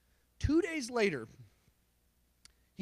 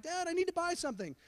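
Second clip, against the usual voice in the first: imitating his son; 7 semitones higher, 4 dB quieter, faster than usual. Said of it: "now he's like".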